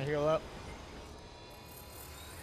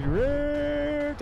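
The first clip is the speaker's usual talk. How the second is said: squeaky mock voice; 5 dB louder than usual. Mocking teammate who'll get rigged.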